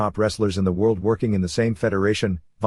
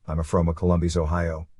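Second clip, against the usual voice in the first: lightly voiced Puerto Rican accent, not far from his own voice; San Juan accent; 4 semitones lower than usual. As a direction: read it in Frankie's San Juan accent, understated. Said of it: "in his San Juan accent".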